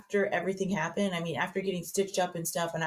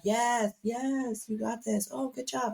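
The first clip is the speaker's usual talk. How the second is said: mock cheering; 5 semitones higher, slower than usual. Mimicking Sam cheering.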